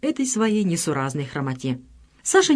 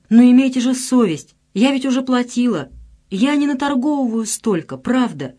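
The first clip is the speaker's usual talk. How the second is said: mildly voiced pleading market woman, raised pitch; plaintive pleading; 6 semitones higher, 3 dB louder than usual. A narrator's reading. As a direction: beg them to leave her be. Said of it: "тётка жалобно оправдывалась".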